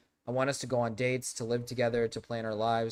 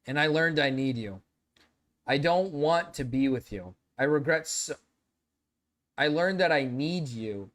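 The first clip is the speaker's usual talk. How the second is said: dramatic pleading lover. Pretend. Reads texts, more dramatic.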